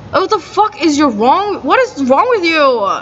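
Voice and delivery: appalled, without shouting; retold exasperated outburst. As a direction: act out an indignant confrontation. Retold angry confrontation.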